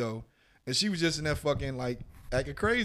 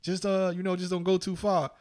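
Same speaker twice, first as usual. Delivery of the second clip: high mock voice of the clueless friend; lightly voiced friend defending himself, pitched up; friend's whiny excuse, pitched up; imitating friend; 7 semitones higher than usual.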